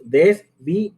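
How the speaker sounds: DESVIÉ broken into des-vi-é; three distinct beats on Desvié; split into syllables. Shown as a demonstration. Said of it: "Hay tres sílabas".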